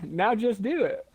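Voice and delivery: slowed repeat. Shown as a demonstration. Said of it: "No, did I?".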